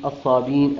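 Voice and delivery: الصابين said ṣābīn, long i, no glottal stop; hamza dropped. Shown as a demonstration. Teacher shows Qalun's الصابين. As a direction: run الصابين smoothly on a long ī. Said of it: "بكسر الحرف الذي قبلها".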